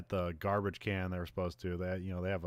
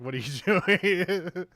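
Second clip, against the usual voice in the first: high, loud, drawn-out incredulous laugh-talk; laughing disbelief; 9 semitones higher, 8 dB louder, much slower than usual. Real, not acted. Viewer scoffs at an unfinished track plot, laughing incredulously. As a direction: break into laughter as you protest the absurdity.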